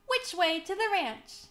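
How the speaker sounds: excited cowboy shouting for directions; eager shout. A narrator's reading. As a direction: call out, raring to go. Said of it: "he shouted".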